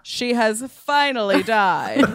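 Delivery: doctor yelling the news, lightly done; mock yell. Shown as a demonstration. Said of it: "You don't have to yell, doctor".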